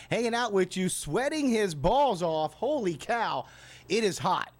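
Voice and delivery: ordinary delivery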